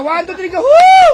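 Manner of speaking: high countdown then a loud whoop; rally the listeners to yell; hyped whoop; countdown cheer. Real, not acted. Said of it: "Isa pa!".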